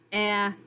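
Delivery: "ah" sounded alone as a short vowel. Shown as a demonstration. Teacher naming the short vowels, short A sound. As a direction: give "ah" as a phonics sound. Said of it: "short sounds for A and I".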